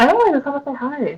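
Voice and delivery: hushed hiding voice. Answering on a phone call while trying not to wake a baby: sounding like hiding, keeping quiet. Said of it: "why do you sound like you're, like, hiding?".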